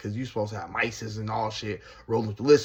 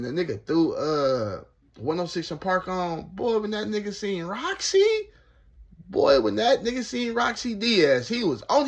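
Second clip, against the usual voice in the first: ordinary talk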